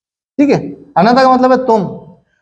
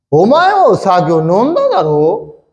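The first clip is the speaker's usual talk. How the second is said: 1 rough rude; slower than usual. Pretend. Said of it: "अखलाक से बात करने की जरूरत नहीं".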